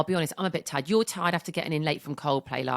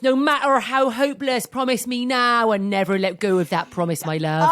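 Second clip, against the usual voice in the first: hammed-up Jack in a farmish accent, growing louder; bad actor's farmish accent, pleading, building up; 4 dB louder than usual. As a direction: Jack begging Rose on the wreck, farmish accent getting louder. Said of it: "That's a bit of a farmish accent".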